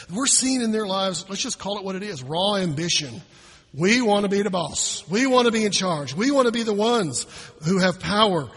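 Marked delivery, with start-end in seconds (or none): 3.7-8.5 mock ambitious boast. Voicing the disciples' ambition.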